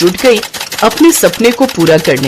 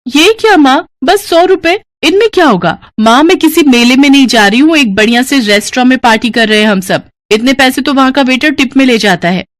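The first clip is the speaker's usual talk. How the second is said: put-on much higher, whiny teenage girl; bratty complaint; 6 semitones higher than usual. Daughter complains to mother about party money, whiny. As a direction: sneer at the money.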